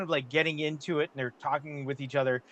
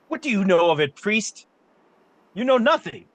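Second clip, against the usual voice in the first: loud, higher, scornful outburst; angry merchant; 6 semitones higher, 7 dB louder than usual. Acted. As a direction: sneer at the priest loudly. Merchant snaps at priest.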